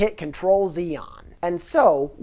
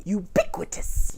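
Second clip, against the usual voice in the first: silly voice. Shown as a demonstration. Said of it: "fun to say".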